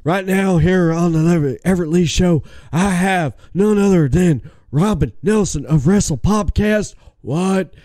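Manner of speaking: lightly voiced Stone Cold Steve Austin; a hint of a Texas rattlesnake host; mild Stone Cold promo voice; Stone Cold impression. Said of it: "talk like Stone Cold Steve Austin".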